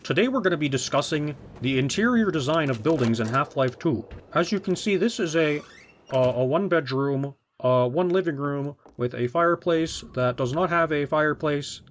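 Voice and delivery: lightly put-on formal presenter; a hint of pedantic explainer parody; mock video essayist. Parodying an essay on interior design, lightly stiff presenter voice. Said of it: "when I talk like Half-Life two voice".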